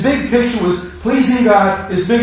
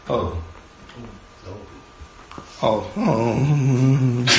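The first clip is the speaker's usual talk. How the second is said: soft stunned realization; 6 semitones lower, 8 dB quieter, much slower than usual. Acted. Dawning realisation acted out.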